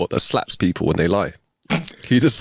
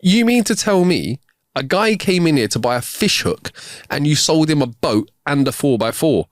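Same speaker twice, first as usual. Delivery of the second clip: higher-pitched disbelief, easing down a little towards the end; mildly incredulous questioning; 4 semitones higher than usual. Acted. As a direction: play the manager who can't believe it.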